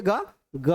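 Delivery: "ग, ग" with a long voiced vowel; resonant, ringing. Shown as a demonstration. Teacher asking students to say it, "ग, ग" left resonating. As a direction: let "ग, ग" ring on. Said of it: "sound गूंजता है".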